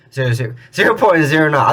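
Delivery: tripping over the numbers with a laugh; stumbling, laughing at yourself; stuttering. Real, not acted. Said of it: "I don't know why I'm stuttering".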